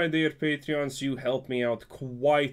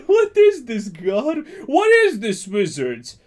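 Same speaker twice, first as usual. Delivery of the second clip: much higher, louder cry of disbelief; incredulous; 7 semitones higher, 8 dB louder than usual. Real, not acted. Streamer reacting to opponent's card, loud high disbelief.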